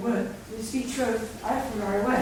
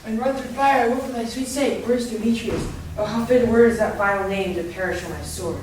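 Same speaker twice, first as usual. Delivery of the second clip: passionate outburst; 4 dB louder than usual. Acted. Lysander wakes, vows passionately.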